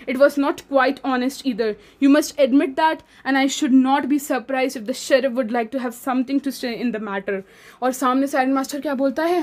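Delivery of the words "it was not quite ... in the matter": reading the English passage aloud slowly; measured classroom read-aloud; slow story reading. Acted. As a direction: read each word carefully, like a textbook. Reads English story text aloud.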